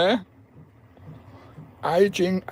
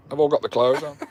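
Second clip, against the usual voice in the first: laughing; 5 semitones lower, 3 dB quieter than usual. Real, not acted. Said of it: "I've got tears rolling down my eyes".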